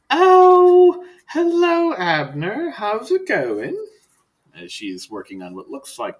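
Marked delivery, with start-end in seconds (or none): 0.1-3.8 high, sing-song greeting; sweet seamstress voice. Acted. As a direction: trill it like a cheerful seamstress. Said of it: "she just goes".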